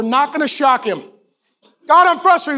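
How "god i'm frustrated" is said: a higher, louder voiced gripe to God; praying to God, a mock frustrated complaint. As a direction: play the complainer airing it to God. Voicing a frustrated prayer.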